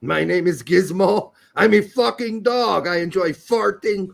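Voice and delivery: goofy dog voice; talking dog voice. Pretend. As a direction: speak as a crude pet dog. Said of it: "what would their voice sound like".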